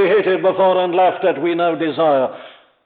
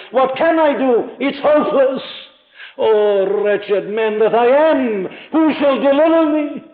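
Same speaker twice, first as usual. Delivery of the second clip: higher, pleading cry of a man at war with himself; anguished lament; 5 semitones higher than usual. Acted. Preacher voicing Paul's wretched man, anguished pleading cry. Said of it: "Paul has said it all for us".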